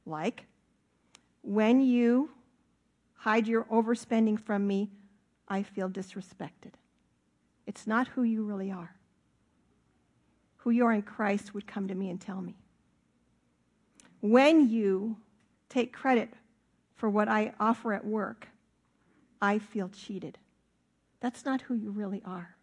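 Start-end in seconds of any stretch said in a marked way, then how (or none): 1.4-6.7 gentle I-statement. Shown as a demonstration. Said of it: "you say it in a gentle way". 14.2-20.4 gentle I-statement. Shown as a demonstration. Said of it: "you say it in a gentle way".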